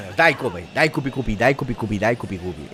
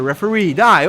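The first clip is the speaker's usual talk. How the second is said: loud, high angry yell; furious yell at referee; 8 semitones higher, 8 dB louder than usual. Real, not acted. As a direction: scream at the referee in rage. Yelling at the referee.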